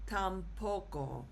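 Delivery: "tampoco" stressed on the middle syllable, tam-PO-co; stress on first O. Shown as a demonstration. Teacher showing how the word is pronounced, "tampoco" stressed on PO. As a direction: punch the PO in "tampoco". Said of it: "it will go on the first O".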